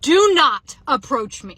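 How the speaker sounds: loud, slow, emphatic warning; drawn-out loud command, acted out; retold yell. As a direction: re-enact yelling someone off, word by word. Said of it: "I literally yelled at him".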